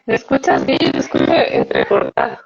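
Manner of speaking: choppy robotic call audio; glitchy low robotic connection. Real, not acted. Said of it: "Yo le escucho un poco robóticamente".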